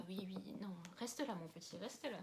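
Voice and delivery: a soft murmur to keep the little animal still; softly to the pet. Real, not acted. Murmuring softly to her pet to stay put. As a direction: hush the pet gently.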